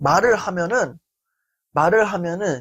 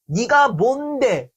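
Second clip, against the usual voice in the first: very slow, higher, contemptuous; looking-down sneer; 4 semitones higher, much slower than usual. Shown as a demonstration. Demonstrating how the phrase belittles someone, slow sneer. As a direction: drag it out to belittle. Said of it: "의미가 담긴 말".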